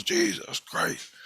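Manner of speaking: very high, breathless whisper of "Jesus Christ"; mock terrified whisper; freaking out. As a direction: gasp "Jesus Christ" out slow and airy in terror. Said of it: "he just freaks out".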